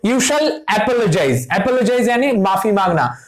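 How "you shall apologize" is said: very slow, word by word, like dictating; slow dictation. Shown as a demonstration. Teacher reading an example sentence to the class, very slow. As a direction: spell the example out slowly for students. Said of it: "ये sentence देखो".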